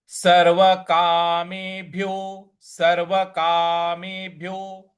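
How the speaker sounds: सर्वकामेभ्यो slow, gentle weight on भ्यो; light stress. Shown as a demonstration. Teacher showing light stress on सर्वकामेभ्यो. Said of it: "उस पे हमको हल्का सा बल लगाना है".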